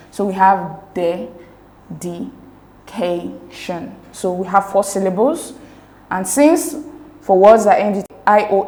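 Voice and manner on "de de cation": "de, de, cation" split by clear pauses; syllable by syllable. Shown as a demonstration. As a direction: separate "de", "de", "ca" and "tion" one at a time. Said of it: "divide the word dedication into syllables".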